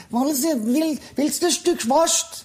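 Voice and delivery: sehr hoch und langsam, süßliche Verkäuferinnenstimme; hoch geflötete Frage an ein Kind; Verkäuferin. Retold or imitated. Verkäuferin an der Wursttheke zitiert. (Verkäuferin an der Wursttheke, hoch und gedehnt)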